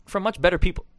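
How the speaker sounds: hiccuping mid-sentence; words broken by a hiccup. Real, not acted. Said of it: "Excuse me, I got the hiccups".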